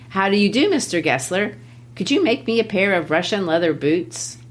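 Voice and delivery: put-on light German accent on the customer's request; a hint of German English, said evenly. Teacher reading the request in a mild German accent. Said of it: "great German accent there".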